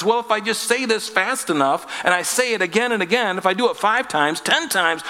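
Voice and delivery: mock eager rattling off prayers, fast; sarcastic impression of a babbler; hammed-up smug pray-er. Mocking vain repetitive prayer.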